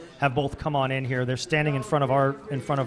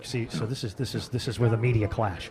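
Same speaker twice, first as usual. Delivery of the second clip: golf commentator; 3 semitones lower than usual. Acted. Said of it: "use the golf voice here".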